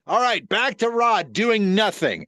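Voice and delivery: acted control-room director; live TV director. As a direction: call cuts like a harried live director. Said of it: "It was some live director".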